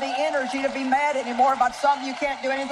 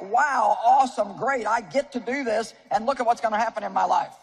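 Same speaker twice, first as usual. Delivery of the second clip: delighted. Shown as a demonstration. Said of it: "but you read it like".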